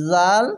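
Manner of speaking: জাল said with a soft, light জ; soft jal. Shown as a demonstration. Teacher showing the soft letter জাল to students. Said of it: "জাল নরম করে পড়ছি".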